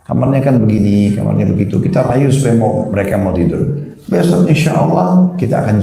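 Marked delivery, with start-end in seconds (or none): 0.0-1.8 put-on coaxing a child to sleep in their own room, gently; reassuring parent, lightly voiced; gentle coaxing. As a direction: patiently sweet-talk the little one. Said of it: "Saya rayu baik-baik".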